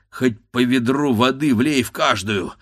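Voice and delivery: plain reading voice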